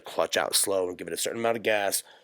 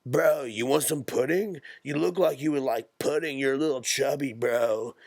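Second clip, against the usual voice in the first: mock surfer bro; 5 semitones higher than usual. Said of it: "he was more like".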